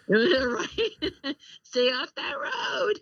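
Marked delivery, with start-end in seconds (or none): 1.6-3.0 drawn-out playful road warning; mock traffic reporter. Radio traffic lady warning drivers, playfully drawn out. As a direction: stretch it out like a joking traffic announcer.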